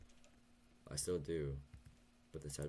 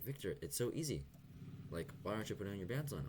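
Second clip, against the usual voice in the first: hammed-up scolding orthodontist; mock scolding dentist; 6 semitones higher than usual. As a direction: play the nagging dentist telling him off. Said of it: "she was flaming me".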